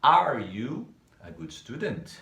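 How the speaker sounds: slow, even reading of the question; slow model question. Shown as a demonstration. Teacher reviewing the question form for students. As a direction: lay it out slowly and flatly. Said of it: "A primeira delas a gente usou o you".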